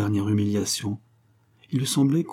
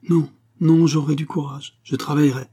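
eager protest; 6 semitones higher, 5 dB louder than usual. Acted. Angèle protests bravely to Joseph.

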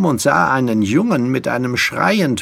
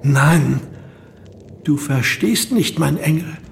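higher, pressing plea; raised, insistent explaining; urgent pleading; 6 semitones higher than usual. Acted. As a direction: plead earnestly to be understood. Pleading with the apparition of beloved.

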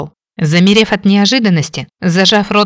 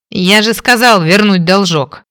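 mocking. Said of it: "Глумливым голосом рассмеялся".

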